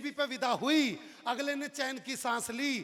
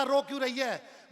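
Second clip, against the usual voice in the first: louder and slower, exasperated; slow, louder exasperated question; irritated repeat; 4 dB louder than usual. Acted. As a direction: demand it again, losing patience.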